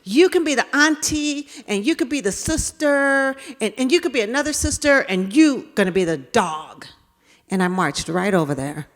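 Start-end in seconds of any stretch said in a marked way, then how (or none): 0.0-6.9 put-on bossy little girl. Bossy girl assigning roles.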